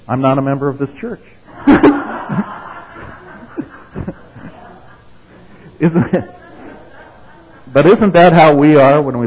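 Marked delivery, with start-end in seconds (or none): 0.0-1.2 amused retort. Retold or imitated. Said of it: "And he says". 1.5-4.7 wheezing high-pitched laugh; breathless high laugh. Real, not acted. Preacher laughing at his own joke, breathless. Speaker cracks up at punchline.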